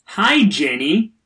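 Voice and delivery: slow, loud, deadpan word by word; reading a typo-filled tweet. Pretend. Host reading a fan's garbled tweet aloud, slow and loud. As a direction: read each word stiffly as misspelled. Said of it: "let's try one more time".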